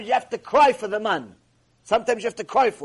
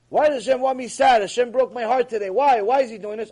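loud, raised mock lament; acted complaint; 3 semitones higher, 4 dB louder than usual. Believer asking why Hashem broke their heart, complaining. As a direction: protest as a hurt believer, hammed-up.

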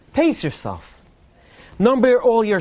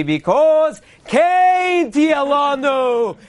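drawn-out hammed-up cry, pitched up high; mock preacher's cry; 5 semitones higher, much slower than usual. Preacher to the Purim crowd, slow hammed-up cry. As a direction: stretch it out like a sermon climax. Punchline cried out to audience.

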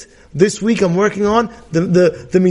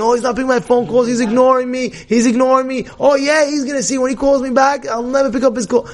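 higher, mock indignant rant; getting crazy; 6 semitones higher than usual. Imagined friend feeling ignored and vowing payback, mock worked up. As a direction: imitate someone stewing over being ignored. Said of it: "You get crazy".

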